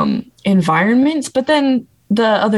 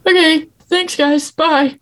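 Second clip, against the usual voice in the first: sarcastic bye; 9 semitones higher, slower than usual. Retold or imitated. Sarcastic goodbye to rude staff.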